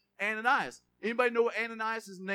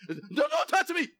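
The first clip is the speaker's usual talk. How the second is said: slow, higher "don't touch me"; recoiling; 5 semitones higher, 4 dB louder than usual. Acted. Preacher acting out someone shrinking away, recoiling. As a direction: pull back offended.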